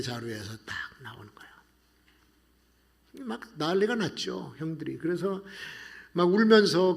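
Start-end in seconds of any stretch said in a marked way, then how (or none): 0.0-3.3 slow breathy whisper of a sudden discovery; hushed whisper. A narrator's reading. Preacher whispers to the congregation, slow and hushed. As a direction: drop to a slow whisper for the reveal. Suspense moment in Bible story.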